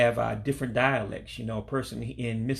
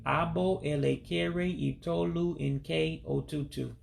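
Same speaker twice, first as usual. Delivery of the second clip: at normal speed; 4 semitones higher, slower than usual. Shown as a demonstration. Teacher to learners, saying it first at normal speed. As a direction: say the Igbo phrase smoothly in one go. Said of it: "I'll say it fast".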